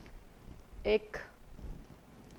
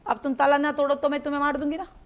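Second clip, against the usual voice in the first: mock threat; 3 semitones higher, 10 dB louder than usual. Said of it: "मैंने कहा".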